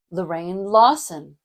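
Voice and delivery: "Lorraine Lawson" with weight on "Lawson", falling; deliberate "Lorraine Lawson", second word stressed; name with varied melody. Shown as a demonstration. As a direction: land on "Lawson" after a level "Lorraine". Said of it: "I can play with different melodies".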